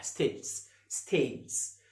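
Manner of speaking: ستيجز with a clear d before the j; d sound in stages. Shown as a demonstration. Teacher showing the class the d sound in ستيجز. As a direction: glide a light d into the j in ستيجز. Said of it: "حس ان في النطق في حرف الدي".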